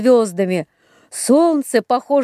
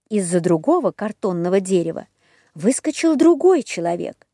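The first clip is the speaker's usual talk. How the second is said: usual speaking voice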